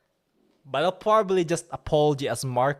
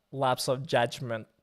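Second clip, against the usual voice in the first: mock contrite; 4 dB quieter than usual. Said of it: "You know those, like, sigh".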